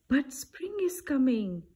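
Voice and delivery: chirped. A narrator's reading. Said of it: "Bird chirped".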